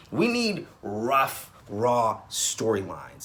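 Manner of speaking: rough and raw each drawn out slowly; slow emphatic stress. Real, not acted. Fan pleading for gritty soap stories, slow deliberate stress. Pressing her point about soaps.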